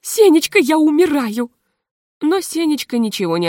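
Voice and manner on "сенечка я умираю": despairing cry. A narrator's reading. Hostess despairs.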